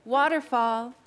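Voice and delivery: bright classroom call; kindergarten teacher voice. Shown as a demonstration. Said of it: "Okay, ready? Let's try it".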